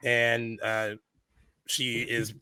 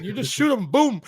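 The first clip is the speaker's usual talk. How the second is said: imitating the angry dad; 10 semitones higher than usual. Dad scolding his son for not shooting, high mock outrage. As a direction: play the baffled father, pitched way up. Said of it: "He's like".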